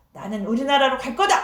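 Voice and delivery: understated huff of a general; mock angry exclamation. Naaman, refusing to wash in the river, mildly angry. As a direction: storm off, lightly played. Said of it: "하면서 화를 내면서".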